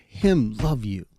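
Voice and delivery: put-on light toddler voice, each word slow and deliberate; a hint of a toddler, dragged out slowly; slow baby talk. Dad retelling his daughter insisting, in slow light baby talk. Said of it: "I'm gonna repeat it in baby talk".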